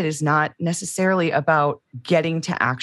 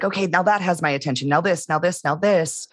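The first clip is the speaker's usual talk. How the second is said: mock frantic inner voice; 3 semitones higher, faster than usual. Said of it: "Frantically moving about".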